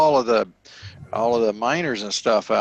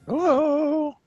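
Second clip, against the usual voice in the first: calling out. Real, not acted. Calling to a silent caller.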